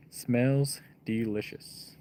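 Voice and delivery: slow, drawn-out mock relish; savoring a smell. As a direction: savor each word of the stink. Sarcastic praise of stinking bait.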